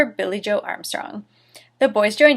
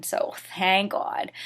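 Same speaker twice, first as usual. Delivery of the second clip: whisper; 7 dB quieter, slower than usual. Real, not acted. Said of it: "whispered relief aside".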